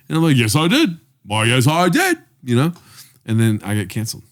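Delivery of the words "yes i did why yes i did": higher, hammy British reply; pitched-up British politeness; mock British accent. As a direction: own up proudly in a put-on British accent. Answers the queen in mock British.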